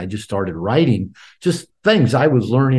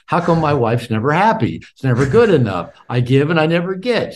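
higher, emphatic mock grievance; imitated complaining; 5 semitones higher, 4 dB louder than usual. Husband griping to his therapist about his wife, imitated complaining.

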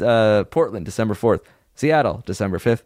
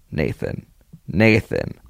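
echo effect; 7 semitones lower, slower than usual. Pretend. Echoing name credit.

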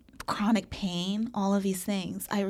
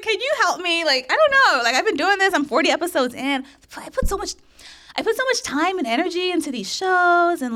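high and louder, laughing through it; laughing mock plea; 9 semitones higher, 7 dB louder than usual. Replaying her first request to the host, laughing high-pitched. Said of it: "I was like".

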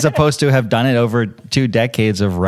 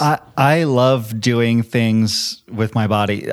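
slow, monotone robot voice; slower than usual. Real, not acted. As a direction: say it like a stiff robot. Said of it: "I sound like a robot right now".

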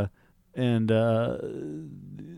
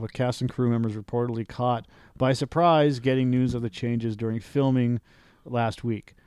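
news read. Acted. Reading the Swamp Thing report aloud, news-anchor style.

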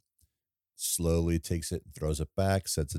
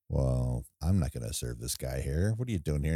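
gruff bar owner; 5 semitones lower than usual. Retold or imitated. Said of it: "takes a look and goes".

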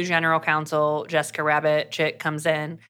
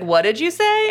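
sharp challenge; 11 semitones higher, 5 dB louder than usual. Retold or imitated. Scott confronts Miller.

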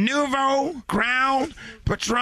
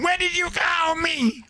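shouting; 5 semitones higher than usual. Acted. Caller shouts back.

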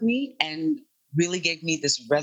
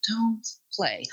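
Black vernacular voice; 5 semitones higher than usual. Acted. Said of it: "it comes out of me".

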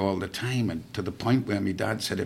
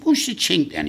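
put-on higher, louder, booming old soldier; loud old guardsman; 9 semitones higher, 6 dB louder than usual. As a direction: bellow across the bar like a proud guardsman. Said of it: "He said".

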